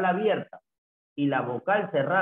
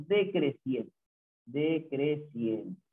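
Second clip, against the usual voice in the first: "Decreciente" measured out in syllables; teacher dictating "Decreciente"; slow dictation; 3 semitones lower, 4 dB quieter, much slower than usual. Shown as a demonstration. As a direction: repeat "Decreciente" slowly, easing off. Teacher repeats term for notes.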